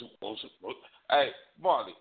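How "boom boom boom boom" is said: whispered rhythmic boom boom; churning washing machine. Retold or imitated. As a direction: chant the booms like a churning washer. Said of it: "she sounded like a washing machine".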